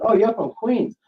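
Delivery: high, loud retold exclamation; excited guess. Caller retelling how they spotted a Queens accent, excited guess. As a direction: pipe up as if spotting it, acting it out.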